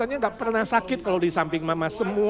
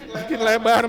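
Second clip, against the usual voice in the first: laughing; 3 semitones higher, 5 dB louder than usual. Real, not acted. Joke about widening.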